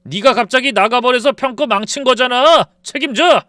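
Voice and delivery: husband bellowing at his wife; furious yell. Retold or imitated. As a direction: bellow the blame. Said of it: "버럭 소리를 질렀어요".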